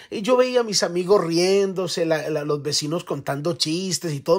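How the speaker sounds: ordinary delivery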